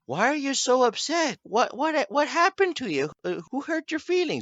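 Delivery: high, taunting fake concern; mocking bully voice. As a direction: sneer it like a schoolyard bully. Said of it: "everyone would look at me going".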